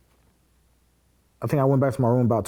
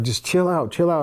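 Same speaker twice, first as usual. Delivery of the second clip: higher-pitched, hurried appeal; retold urgent calming; 6 semitones higher than usual. Officer urging the upset inmate down, imitated higher-pitched appeal. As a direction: imitate someone trying to settle him down.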